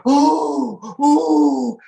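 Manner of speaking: high, loud laughing oh. Retold or imitated. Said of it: "And then they go".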